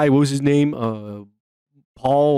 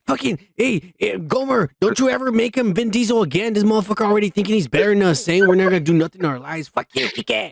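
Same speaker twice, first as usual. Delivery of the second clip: mock telling-off; 4 semitones higher, faster than usual.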